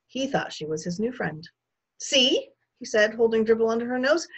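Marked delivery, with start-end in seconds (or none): 2.0-2.5 put-on very high, loud little-kid squeal; excited toddler. A narrator's reading. Toddler shows the guest a book, squealing proudly. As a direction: pipe up like a small child.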